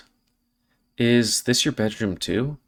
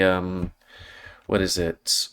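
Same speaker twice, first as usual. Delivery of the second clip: ordinary talk, nothing marked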